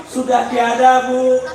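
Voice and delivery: slow, mock-tearful lament; lightly acted child's wail; child crying. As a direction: draw it out like a plaintive child. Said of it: "anaknya nangis".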